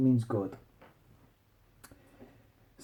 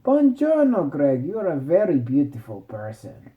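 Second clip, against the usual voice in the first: mock Italian princess. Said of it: "And she was like".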